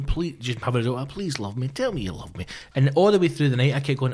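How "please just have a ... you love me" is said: soft pleading. Retold or imitated.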